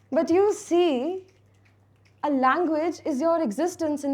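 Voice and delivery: measured, emphatic poetry delivery; lilting spoken-word storytelling; spoken-word recital. Acted. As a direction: recite it like a personal poem on stage, leaning into the key words. Recites own poem to audience.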